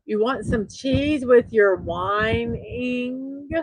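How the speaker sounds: slow, drawn-out teasing whine; slow mocking cheese-with-your-whine taunt; whiny mock taunt. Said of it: "whenever I'm whiny".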